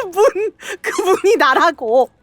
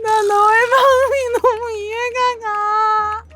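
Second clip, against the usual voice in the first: mock sobbing; 3 semitones higher, much slower than usual. Pitying the ghost mid-game.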